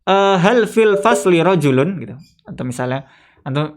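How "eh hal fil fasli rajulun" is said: slow, pitched-up Arabic question; asking someone. Retold or imitated. Teacher voicing a questioner asking about the class. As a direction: ask the class if anyone's there. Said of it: "ada orang nanya gini".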